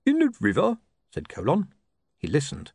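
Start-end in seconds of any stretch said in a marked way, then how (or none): 0.1-0.8 high, puzzled sergeant question; lightly voiced sergeant asking; Colon's voice.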